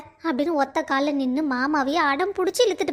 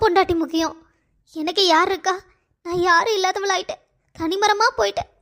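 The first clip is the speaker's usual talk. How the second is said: tearful lament; 2 semitones higher than usual. Acted. Mother lamenting to her son, tearful and self-pitying. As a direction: complain through half-held tears. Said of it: "இப்ப அழுது என்ன பிரயோஜனம்?".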